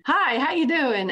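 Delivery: slow, bouncy chirpy greeting; 弾むように明るく挨拶; bubbly, bouncy hello. Retold or imitated. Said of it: "bubbly, bouncy".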